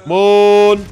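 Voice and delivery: loud triumphant shout. Real, not acted. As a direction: yell it out in triumph. Lucky hit on enemy.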